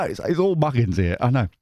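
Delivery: ordinary delivery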